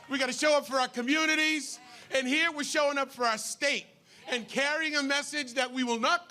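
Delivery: fired-up rally crowd address; rally speech. Real, not acted. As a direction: pump up the crowd. Rally speaker firing up crowd.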